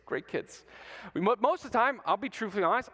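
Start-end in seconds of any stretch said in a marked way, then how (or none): 0.1-0.6 put-on whispered great kids; whispered aside. Shown as a demonstration. Preacher whispers praise to the kids. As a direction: drop to a whisper.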